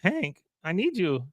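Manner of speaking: high, slowing pitiful whimper; Con whimpering. Retold or imitated. Neighbor left out on the stoop, whimpering for Hank. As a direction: plead in a high mock whimper, dragging the last words. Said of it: "he starts whimpering like Con does".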